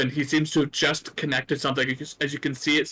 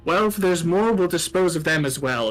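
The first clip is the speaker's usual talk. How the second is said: higher, coolly threatening gnome; cold gnome; 4 semitones higher than usual. Acted. Old gnome to the intruders, cold and dismissive. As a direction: brush off the threat coldly. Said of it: "and goes".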